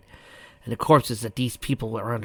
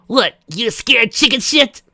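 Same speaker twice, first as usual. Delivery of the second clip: taunting; 12 semitones higher, 11 dB louder, slower than usual. Acted. Taunting the villain.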